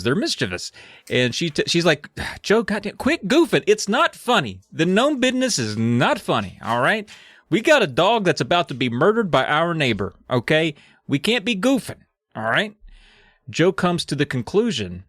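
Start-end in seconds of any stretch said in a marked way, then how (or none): 2.4-12.7 high-pitched mock scolding; exasperated mom. Mom telling Joe to quit goofing, mock exasperated scolding. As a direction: scold a kid with rising exasperation.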